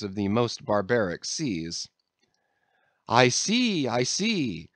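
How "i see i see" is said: quick eager outburst; a hasty, excited exclaim; impetuous exclamation. A narrator's reading. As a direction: blurt it out impetuously. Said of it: "impetuously exclaimed Don Pedro".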